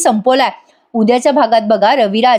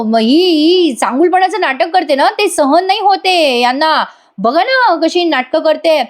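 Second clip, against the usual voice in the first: higher, drawn-out grumbling; acted indignant tattling; exasperated complaint; 5 semitones higher, slower than usual. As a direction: complain slowly with stretched words. Sayali complains, cutting Arjun off.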